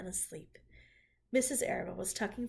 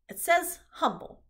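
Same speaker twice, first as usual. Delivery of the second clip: higher, louder rat voice; rat's voice; 9 semitones higher, 9 dB louder than usual. Acted. Templeton reads the web word, high rat voice. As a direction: read it out like a scruffy rat.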